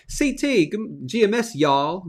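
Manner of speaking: a bad, lightly put-on Texan drawl on y'all; reading a viewer's greeting in mock Texan; Texan accent. Live host reads a Texan viewer's comment in weak mock Texan. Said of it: "That's not even a Texan accent".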